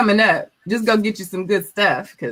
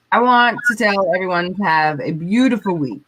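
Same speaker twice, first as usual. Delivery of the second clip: put-on Valley Girl voice. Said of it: "in my Valley Girl voice".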